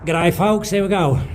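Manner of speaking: a lightly put-on, hammed-up Australian accent; chirpy mock Australian host greeting; bad Aussie accent. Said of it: "'cause I'm shit at Aussie accents".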